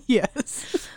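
gobbling turkey voice; turkey impression. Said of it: "It's my impression of a turkey".

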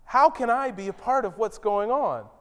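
lifted, delighted Oh this is incredible; thrilled to be part of it; eager wonder. Shown as a demonstration. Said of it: "he's not saying".

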